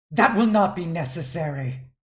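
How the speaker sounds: slightly too loud, ringing, echoing round the room. Narrator voices Lady Crowtrixia cutting off a woman starting her story, slightly too loud. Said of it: "in a slightly too loud voice".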